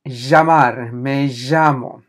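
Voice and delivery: Llamar and llamo begin with a long buzzing j. Shown as a demonstration. Teacher gives examples of double L, llamar and llamo with long j. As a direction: draw out the ll as a zh-like j. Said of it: "det uttalas j som ett långt j".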